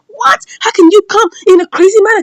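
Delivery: high, indignant questioning; bothered. Acted. Staff confronting the attacker, bothered. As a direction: act out bothered staff taking offence. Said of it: "bothered, like".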